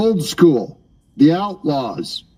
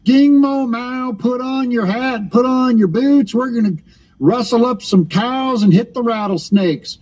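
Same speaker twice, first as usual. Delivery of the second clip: mock cowboy; 4 semitones higher than usual. Mocking Texas Republicans as cowboys.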